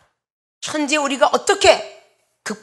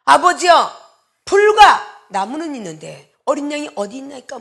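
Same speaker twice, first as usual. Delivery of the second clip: a son's loud call, easing off; lightly voiced Isaac; 3 semitones higher, 6 dB louder than usual. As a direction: call out to father, then ask. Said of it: "아들 이삭이 얘기할 때".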